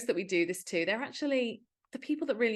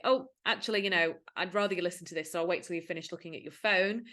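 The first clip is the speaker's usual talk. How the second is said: gently; 2 semitones lower, faster than usual. Shown as a demonstration. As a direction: ask kindly, no pressure. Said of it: "a little bit more gently".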